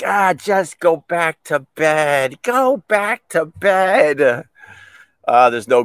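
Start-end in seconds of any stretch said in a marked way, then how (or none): 0.0-4.5 sheepish dismissal. Retold or imitated. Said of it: "And I'm like".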